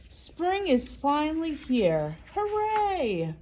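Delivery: high cheering little mouse; excited mouse. Acted. Mouse cheering to Bird that spring came, high and excited. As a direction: celebrate spring like a tiny mouse. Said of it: "said Mouse".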